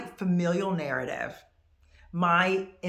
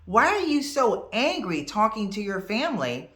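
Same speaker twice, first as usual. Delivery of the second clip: acted accusing question, louder with swooping pitch; taken-aback questioning; 3 semitones higher, 5 dB louder than usual. Outsider asking about her family, mildly shocked. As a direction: challenge them, leaning on the key words. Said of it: "you say something like".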